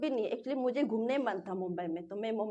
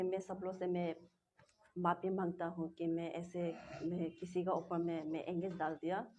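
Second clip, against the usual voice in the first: quiet, tearful apology, voice near breaking; fighting back tears while apologising; 3 semitones lower, 3 dB quieter than usual. Real, not acted. Young woman apologising to the media through tears. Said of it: "मत रो".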